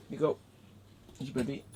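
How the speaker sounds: soft, slightly high coaxing. Real, not acted. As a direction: gently offer a pet its toy. Offering dog its toy.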